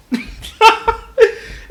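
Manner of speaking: high-pitched burst of laughter. Real, not acted. Laughs at the plot.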